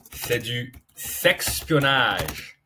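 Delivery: « sexpionnage » lent, appuyé; pèse le mot « sexpionnage »; sexpionnage détaché. Shown as a demonstration. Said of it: "Sex-, sexpionnage". (« sexpionnage » dit lentement, détaché)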